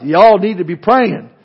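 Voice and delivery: loud, slow Southern drawl on "y'all"; Southern accent. Acted. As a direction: play it up as a Southerner, loud and unhurried. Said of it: "Paul had to be from the South".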